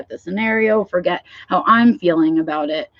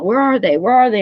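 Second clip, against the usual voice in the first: frantic searching; 4 semitones higher than usual. Retold or imitated. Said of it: "my brain wants to find those things".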